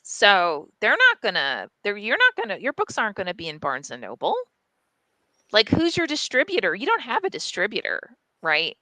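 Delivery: imitating a sceptical, patronizing publicist; condescending. Publicist doubting a small-press author's distribution, condescending. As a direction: rattle off belittling questions, mildly condescending. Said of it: "the guy was really condescending".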